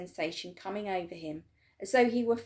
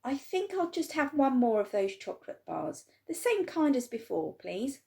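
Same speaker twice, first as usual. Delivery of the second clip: put-on boy voice; 6 semitones higher than usual. A narrator's reading. Charlie asks shyly for more.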